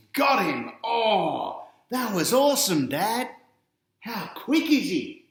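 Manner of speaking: put-on high, loud cheering boy; thrilled kid. A narrator's reading. Boy cheering to Dad about the tackle, high and excited. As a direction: yell it out like a kid at the footy.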